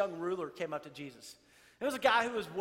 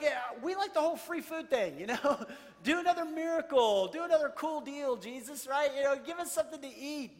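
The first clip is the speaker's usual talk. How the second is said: whiny demanding crowd; 5 semitones higher, 5 dB louder than usual. Retold or imitated. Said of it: "They're like".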